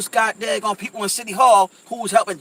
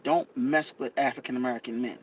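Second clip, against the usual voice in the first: retold whisper; 7 semitones lower, 7 dB quieter than usual. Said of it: "whispered in her ear".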